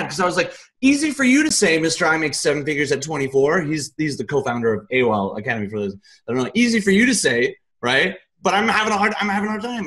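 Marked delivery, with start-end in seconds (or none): 0.8-3.6 retold angry outburst. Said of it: "I was so mad". 6.5-9.9 pitched high, hurt and indignant; retold angry protest. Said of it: "I was, I was mad".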